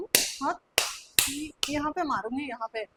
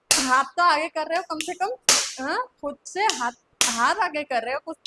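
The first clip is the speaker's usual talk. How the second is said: loud, sharp reproach; angry scolding; 6 dB louder than usual. Acted. Teacher punishing pupil's outstretched hand, loud angry scolding. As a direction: scold the pupil at raised volume.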